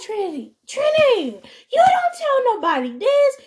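hammed-up mom hollering her name through a laugh; mock scolding mom.

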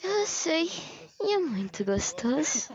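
slow, playful sexy voice, starting high; sensual. Pretend. Answering the dare to say it sexy, sensual. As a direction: stretch it out teasingly. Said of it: "fala você do jeito sensual".

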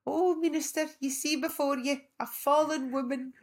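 put-on high, loud old-lady wit; high mock-grand auntie; cheeky auntie. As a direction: quip like a sharp old auntie. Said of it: "she said to the minister".

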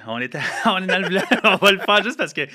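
laughing through the words; high laughing, fast. Real, not acted.

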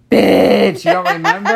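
high, loud incredulous exclamation; mock outraged outburst. Retelling friend's exasperated outburst.

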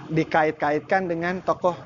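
chuckling through the words; laughing. Real, not acted. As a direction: laugh as you say it. Laughs at viral Avenger comparison. (sambil tertawa)

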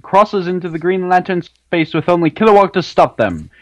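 light announcer voice, running out of breath. Acted. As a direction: hype announcer reading a long summary. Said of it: "you're running out of breath, man, on that announcer voice".

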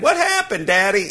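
put-on high, pleading little-girl voice; whiny crying kid. Daughter complains to mom about dad, high whiny plea. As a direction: plead to daddy like a sobbing kid. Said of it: "she's screaming and belly aching".

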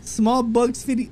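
slow fake Irish that sounds Indian; wobbly Irish-turned-Indian accent; botched accent revival. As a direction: bring back the bad Irish accent, slowly. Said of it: "I gotta bring it back".

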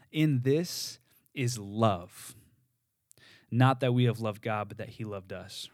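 very slow, "In" drawn out and weighted; unhurried reading that pauses on "In"; slow emphasis reading. Shown as a demonstration. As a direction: dwell on "In", letting each word sit. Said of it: "it would sound something like this".

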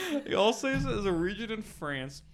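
overdone French pronunciation of Alsace; French accent. Acted. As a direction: lean hard into the French. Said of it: "trying too hard on the French accent".

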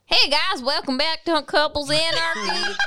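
put-on Pine Bush accent. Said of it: "you used to do a, a Pine Bush accent".

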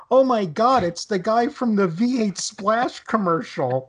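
excited pointing. Retold or imitated.

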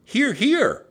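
high, loud repeated call; calling from above. A narrator's reading. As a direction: shout down to guide someone over. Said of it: "Annie's voice came from above".

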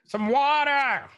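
very high, slow, drawn-out plea; lizard lady voice. Acted. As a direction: stretch it out like a thirsty little lizard.

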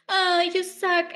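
high, drawn-out mock whine of a sad baby. Kid mimicking a complainer to annoy them, baby sad voice. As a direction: copy it back like a sulky little child, slowly. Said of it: "in the baby sad voice, like".

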